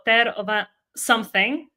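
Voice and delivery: imitated announcer fumbling "Ter Ova-"; fumbled name reading. Announcer reading out the twins' Armenian surname, fumbled name reading. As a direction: attempt "Ter Ova-", break off and give up with "something".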